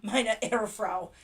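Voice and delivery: giggling through the German words; laughing German. Real, not acted. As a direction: laugh while saying the German line. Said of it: "I almost started German".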